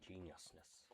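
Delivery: attempted evil-genius alien voice; halting, badly faked villain scientist; Jumba. Trying a mad scientist's voice, halting evil-genius impression. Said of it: "I cannot do Jumba's voice".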